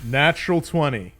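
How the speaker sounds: loud, thrilled call of a natural twenty; excited. Real, not acted. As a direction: cheer the roll out. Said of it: "Off to a good start".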